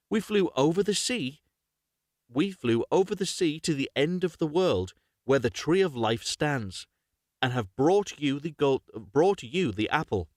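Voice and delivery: measured, clearly phrased fairy-tale reading; story narration. Acted. Reads a fairy tale aloud.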